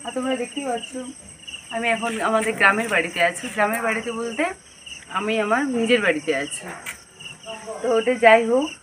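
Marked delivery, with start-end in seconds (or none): 0.0-6.7 talking through a toothbrush; while brushing teeth. Real, not acted. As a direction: mouth full of toothpaste. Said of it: "brush করতে করতে".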